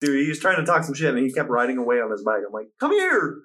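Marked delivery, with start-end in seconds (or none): 2.8-3.4 high-pitched mock holler; retold calling out. Man on foot calls after departing cyclist, high retold holler. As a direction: call after someone getting away.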